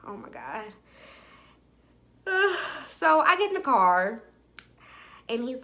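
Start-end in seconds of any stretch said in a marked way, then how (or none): 0.1-0.6 low, hushed exclamation; reluctant dismay. Retold or imitated. Woman giving in to his plea to talk, quiet dismay. 2.2-2.8 heavy giving-in sigh; reluctant sigh. Retold or imitated. Woman about to get in the car, resigned sigh.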